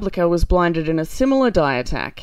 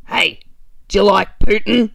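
lightly put-on Northern England gangster accent, louder on the question; a faint menacing Northern English hood asking down the phone; mock Northern gangster accent on a sinister phone poll; Michael Caine gangster; 2 semitones higher, 5 dB louder than usual. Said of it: "In that accent as well".

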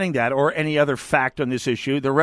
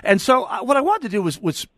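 laughing; 4 semitones higher than usual. Real, not acted. Host recovering after cracking up.

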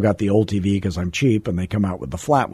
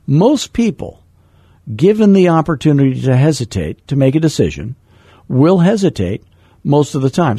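the rule again, opening higher and more emphatic; quoting mentor Floyd; 3 semitones higher than usual. Retold or imitated. Passing on what mentor Floyd taught, lightly voiced and emphatic. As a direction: repeat it as the mentor said it, pushing the key words. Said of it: "Floyd taught me that".

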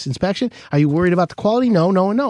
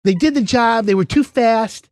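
mimicking her excuses; 4 semitones higher than usual. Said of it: "what's her side of the story".

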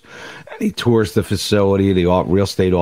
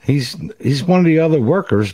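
higher, lightly amused storytelling voice; grinning coworker; 9 semitones higher than usual. Acted. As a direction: answer through a barely held-back grin. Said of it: "uncontrollable grin, he goes".

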